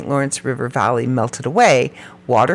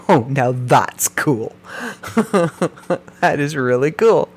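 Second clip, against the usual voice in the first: slow, amazed "oh" breaking into a laugh; delighted. Real, not acted. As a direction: savor the cool fact with a giggle. Delighted reaction to a fun fact.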